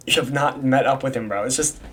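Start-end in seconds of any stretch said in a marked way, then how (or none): 1.4-1.8 talking through hiccups; words broken by hiccups. Real, not acted. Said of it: "Sorry, I have the hiccups".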